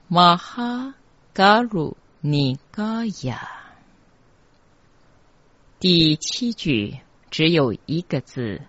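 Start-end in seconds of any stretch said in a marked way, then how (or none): 0.1-3.5 higher, measured mantra chant; mantra recitation. Shown as a demonstration. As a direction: recite it in short syllable groups. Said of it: "整句念起来".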